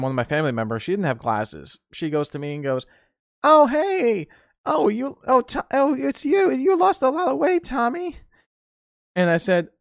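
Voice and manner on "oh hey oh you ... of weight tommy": high, hesitant relative voice; confused relative. Retold or imitated. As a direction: squint and guess who it is. Relative without glasses squinting.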